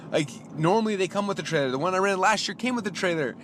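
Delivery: high-pitched incredulous argument; retold customer protest, pitched well up; exasperated explanation. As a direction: spell it out in frustration. Retold argument over missing trailer.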